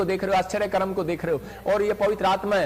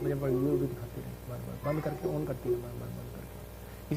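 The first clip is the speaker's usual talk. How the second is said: much lower and softer, trailing into a whisper; hushed low aside about the video; quiet aside; 7 semitones lower, 10 dB quieter than usual. Real, not acted. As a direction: mutter it off-mic.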